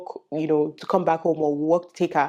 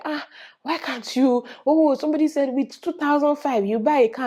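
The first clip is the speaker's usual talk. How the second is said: 1 imitating puzzled viewers; 7 semitones higher than usual.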